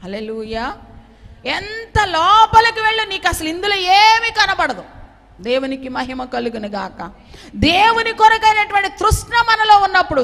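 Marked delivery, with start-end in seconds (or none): 1.5-4.8 fiery preaching. Acted. Pastor warning the congregation, in a loud, high preaching cry. 7.6-10.2 high, loud preacher's call; fiery preaching. Acted. Pastor urging listeners to long for God, loudly preaching.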